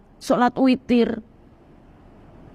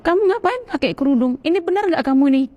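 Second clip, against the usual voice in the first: higher-pitched sceptical grilling; retold challenge; 5 semitones higher than usual. Acquaintances challenge her over the headscarf, retold suspicious questioning. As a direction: imitate someone questioning her sincerity.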